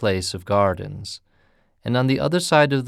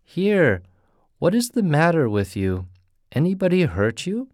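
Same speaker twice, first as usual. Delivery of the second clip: gruff peddler; 7 semitones higher than usual. Acted. Peddler questions panicked man.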